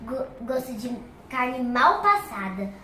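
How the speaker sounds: speaking with a numb mouth after anesthesia; numb from the dentist. Real, not acted. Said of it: "E eu não estou sentindo a minha boca". (boca anestesiada no dentista)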